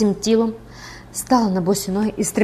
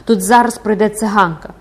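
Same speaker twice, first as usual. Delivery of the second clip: louder, urgent warning cry; 6 dB louder than usual. Acted. Recluse warning that the gypsy is coming, crying out. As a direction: exclaim it as a warning. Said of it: "вигукнула вона".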